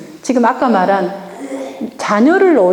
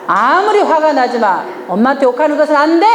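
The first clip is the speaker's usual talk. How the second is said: put-on firm rule to the child; firm demo; 3 semitones higher than usual. Shown as a demonstration. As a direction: lay down the line firmly. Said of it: "딱 단호하게 하는 거야".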